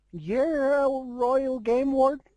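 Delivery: surprised question. Acted. Fluttershy asks warden.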